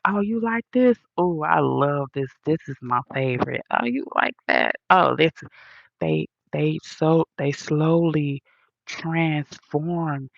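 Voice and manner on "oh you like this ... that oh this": mock mirroring copycat. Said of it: "They start be like".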